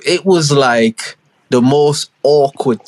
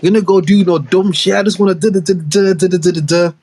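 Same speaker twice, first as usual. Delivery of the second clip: indignant son; 4 semitones higher than usual. Retold or imitated. Son arguing he's no kid.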